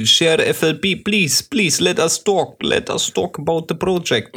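high pleading broken English; begging foreign caller. Retold or imitated. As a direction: beg in clumsy English, pitched high. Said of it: "immer an, daran G angerufen". (bettelnder Anrufer mit gebrochenem Englisch)

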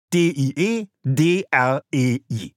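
D I E D R E I spoken letter by letter as separate German letter names; spelled out. Shown as a demonstration. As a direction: spell D I E D R E I one letter at a time, each letter named. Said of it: "Alles zusammengeschrieben".

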